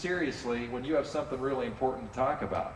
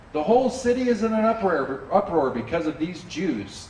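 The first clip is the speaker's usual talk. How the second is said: louder, higher angry crowd cry; shouting; 4 semitones higher, 4 dB louder than usual. Retold or imitated. Masters shouting to the city officials, raised and higher. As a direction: rouse the officials against them. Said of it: "they shouted to the city officials".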